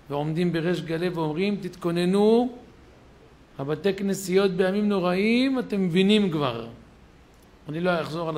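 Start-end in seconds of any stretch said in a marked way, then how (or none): 1.6-6.7 loud warning. Retold or imitated. Authorities openly warning the public.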